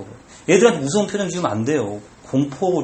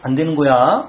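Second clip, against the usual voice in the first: gentle correction; 3 semitones lower than usual. Shown as a demonstration. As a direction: explain it tenderly to a little child. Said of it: "이렇게 얘기를 해줘야 돼".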